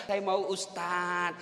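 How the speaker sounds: low, soft, drawn-out mock confiding; widow pretending to confide. Widow accepting the Ustaz's offer, low mock-confiding voice. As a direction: play a widow's quiet, slow yes. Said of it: "Pura-pura curhat janda-janda".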